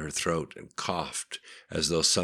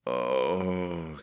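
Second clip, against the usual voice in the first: quiet moan. A narrator's reading. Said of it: "came a quiet moan".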